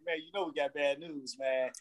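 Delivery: low, hushed mock boss delivering bad news; a hint of a solemn boss firing someone. Mock firing speech to employee.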